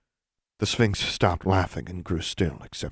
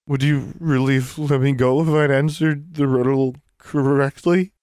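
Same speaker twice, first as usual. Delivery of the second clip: put-on young woman voice; 7 semitones higher, 4 dB louder than usual. Alexandra's voice in narration.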